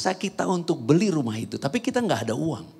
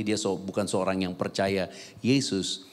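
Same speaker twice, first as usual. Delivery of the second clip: ordinary delivery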